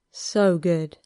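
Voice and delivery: "So good" let out on an exhale; mild sated sigh on "So good"; exhaled. A narrator's reading. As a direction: breathe out "So good" in one sigh. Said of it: "Harry exhaled".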